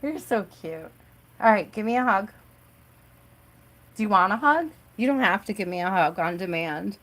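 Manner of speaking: tender with daughter. Real, not acted. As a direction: hug her with your voice, gently. Mother talking softly to daughter.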